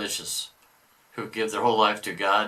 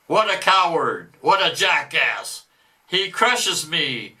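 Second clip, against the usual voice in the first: a boastful devil, louder than the commentary; 5 semitones higher, 5 dB louder, slower than usual. Acted. Devil boasting of stolen souls, mock devil voice. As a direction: read it as the gloating devil. Reader voicing the devil's message.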